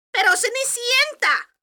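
high, loud sneering call; stepsister voice. Acted. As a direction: call her with scorn. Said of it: "dijeron las hermanastras".

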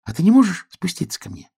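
high piglet question; piglet calling. A narrator's reading. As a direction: ask up high like a small piglet. Piglet pleads with star.

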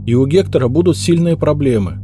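put-on high, anxious young maid's voice; the maid explains herself, high and anxious; hurried maid's confession. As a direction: rush out the confession, scared. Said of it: "быстро проговорила девица".

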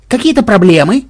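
loud, high menacing retort; mock-tough growl; growled challenge. A narrator's reading. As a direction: snarl it as a threat. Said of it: "рыкнул Ксенобайт".

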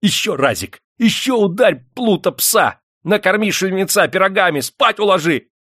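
high, loud, whooping encouragement; delighted cheering. A narrator's reading. Master cheers on the miner in the fight, delighted. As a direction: cheer for another blow in utter delight. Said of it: "в совершенном восторге".

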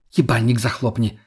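usual speaking voice

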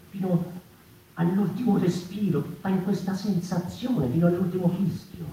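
very high, loud, impassioned cry; a singer's desperate, soaring last stand; passionate climax. Acted. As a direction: give everything to the last breath.

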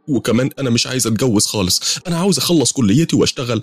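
high, hurried pleading; scared, trying to talk him down; rising frightened protest. Acted. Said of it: "خفت وقلت".

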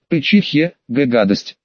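spitting mid-word, stammered bark; sputtering. Acted. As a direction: spit the words out in disgust. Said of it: "отплёвываясь".

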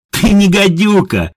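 high, loud, slow guffawing words; laughing outburst. A narrator's reading. Едвига laughs helplessly at the woman, high and loud. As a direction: laugh it out, doubled over. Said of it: "хохотала Едвига".

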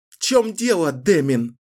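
mocking shout. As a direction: goad him with scorn. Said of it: "закричала она". (Кэлен насмешливо кричит на Дэмина)

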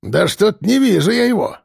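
mocking jibe; taunting old man. A narrator's reading. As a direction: rub it in with a cackling grandpa tone. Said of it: "подначивал его дед".

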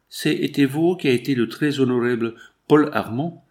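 put-on French with a heavy English accent; formal steward asking in English-accented French. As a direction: foreign employee's English-tinged French.

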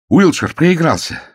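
breathless alarm. Acted. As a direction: cry out the bad news. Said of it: "задыхаясь, крикнул он".

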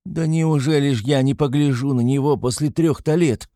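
high, pleading mother; tearful. A narrator's reading. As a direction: plead as if close to tears. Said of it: "заплакала Пульхерия Александровна".

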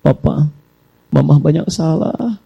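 gentle wife. Acted. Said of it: "Mulai ibu dulu".

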